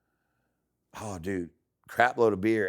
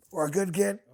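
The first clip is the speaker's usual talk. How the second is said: high, tight voice hiding pain; strained through pain; 10 semitones higher, slower than usual. Retold or imitated. Dad reassuring son while in pain, strained. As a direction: fake being fine while hurting.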